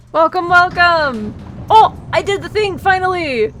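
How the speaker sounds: high, bright bubbly welcome; cute anime streamer. Real, not acted. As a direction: greet everyone like a cheerful mascot. Bubbly welcome, higher and louder.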